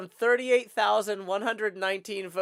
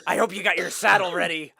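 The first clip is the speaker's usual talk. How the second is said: cowboy voice. Pretend. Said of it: "half Joker, half rodeo clown".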